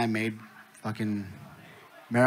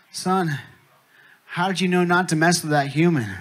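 louder, higher demanding question; mock astonished dad; 4 semitones higher, 7 dB louder than usual. Blown-up alien dad questions his son, astonished. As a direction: demand an answer from your kid.

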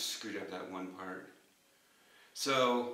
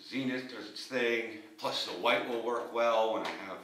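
talking around mouthguard; mouthguard in mouth; 2 semitones higher than usual. Real, not acted. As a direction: through football helmet. Seen 2: Blue guard visible between teeth behind helmet facemask while speaking.

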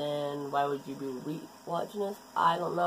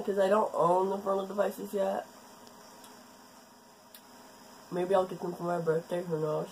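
talking around a lozenge; sucking a throat lozenge. Real, not acted. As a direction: lozenge in the mouth while speaking. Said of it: "I'm sucking on a lodge".

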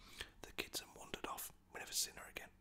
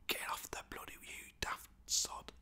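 mock telling-off; 7 dB louder than usual. Boy scolding cat on windowsill, whispered outburst. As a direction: scold the cat in a hushed burst.

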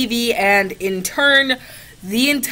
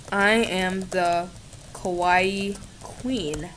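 slow, drawn-out and quieter; slow proud declaration; 2 semitones lower, 4 dB quieter, much slower than usual. Shown as a demonstration. Declaring herself the Kawaii Queen, slow and proud. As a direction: savour each word of the title. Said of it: "Yes, I do".

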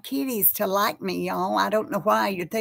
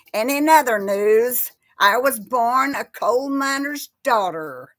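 mock newscaster; 3 semitones higher, 4 dB louder than usual. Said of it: "joke thing".

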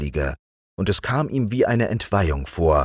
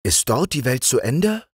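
put-on raised, higher young king; king appointing his friend the frog chamberlain, higher voice; young king's voice; 9 semitones higher than usual. A narrator's reading. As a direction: play the young king granting an honour. King's dialogue.

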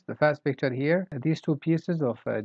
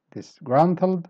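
"disgruntled" raised on "grunt"; stress on GRUNT; 4 semitones higher, 4 dB louder, slower than usual. Shown as a demonstration. Teacher showing the same thing, "disgruntled" stressed in the middle. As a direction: punch "grunt" in "disgruntled", higher. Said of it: "So stress grunt".

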